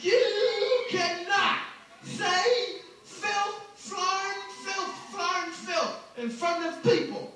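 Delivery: slow, prim scolding comic voice; Bill Cosby voice. Retold or imitated. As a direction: scold like a disapproving elder entertainer. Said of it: "And that's when Bill got pissed".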